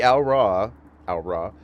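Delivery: "Al Ra" said as "ow-rah"; careful "Al Ra" starting on an "ow" sound; researched pronunciation. Shown as a demonstration. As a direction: say "Al Ra" with an "ow" first syllable. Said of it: "supporting evidence for saying it as Al Ra".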